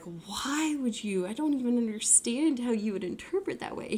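imitated baffled protest, without anger; retold bewilderment. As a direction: question him in mild disbelief. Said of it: "So he wasn't angry".

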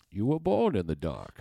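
lightly voiced movie villain, slow; slow, drawn-out villain impression; Bane. Quoting the film to show the accent, slow villain impression. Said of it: "with the accent was supposed".

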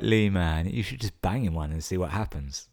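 urging call. Retold or imitated. Urging Lee outside the bar.

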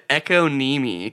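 econeme, said as echo-NEE-mee; misread economy. Retold or imitated. Reading aloud in history class, misread economy as econeme. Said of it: "read it was aloud".

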